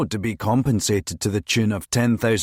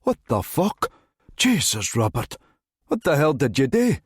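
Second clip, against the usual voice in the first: put-on higher-pitched, startled Sutherland accent; thick Sutherland accent; 4 semitones higher than usual. A narrator's reading. Builder boxed in by police cars, thick Sutherland accent. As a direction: curse to yourself in a Sutherland accent. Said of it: "muttering to himself in his thick Sutherland accent".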